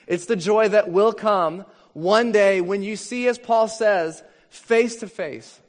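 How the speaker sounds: preaching at full force, exultant; fervent climax. Real, not acted. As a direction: lift it up as the great hope. Climax of the sermon.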